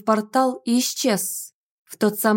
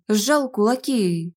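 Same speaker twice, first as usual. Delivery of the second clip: plain reading voice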